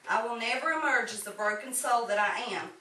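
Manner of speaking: measured poetry reading with pauses between lines; poem recitation. Acted. Poet shares own poem with fellow writers, measured recitation. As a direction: recite it line by line in an even cadence.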